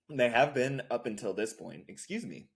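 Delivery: strained voice after choking on water; talking through a tickle in the throat; swallowed wrong way. Real, not acted. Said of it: "Choking on water here".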